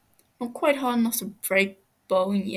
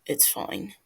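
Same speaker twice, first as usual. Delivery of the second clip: reassuring; 5 semitones lower, 5 dB quieter than usual. Acted. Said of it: "Techno reassures him".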